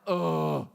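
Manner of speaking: low, drawn-out mock groan; deflated put-on "oh"; disappointed groan. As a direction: groan as the killjoy arrives. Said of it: "you're like".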